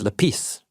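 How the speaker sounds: lapis with the second syllable stressed. Shown as a demonstration. Teacher showing a Greek word, lapis stressed on its second syllable. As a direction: lean on the end of lapis. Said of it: "emphasis on the second syllable".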